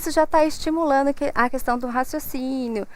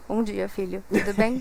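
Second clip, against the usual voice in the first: dull flat greeting; 3 semitones lower than usual. Retold or imitated. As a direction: say it like you don't care, no play in it. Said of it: "uma pessoa que fala".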